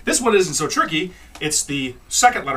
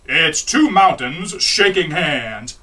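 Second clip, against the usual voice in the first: slow, loud pronouncement; adult guy; 4 dB louder, much slower than usual. Retold or imitated. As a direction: declare it slowly and loudly. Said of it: "male goes".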